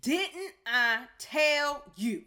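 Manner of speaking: slow, with pauses through clenched teeth; spaced words through gritted teeth. Retold or imitated. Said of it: "said through clenched teeth".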